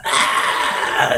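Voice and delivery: long voiceless demon hiss; imitated demon rasp. Fan showing the subbed anime character's nasty sound, demon-like rasp. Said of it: "he's like a demon".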